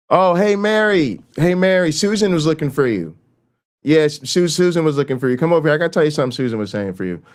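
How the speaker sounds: high, bright fake-casual call to pull someone away; cheerful distraction. Shown as a demonstration. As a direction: act friendly and steer her off with a made-up excuse. Demonstrates distraction intervention, acted.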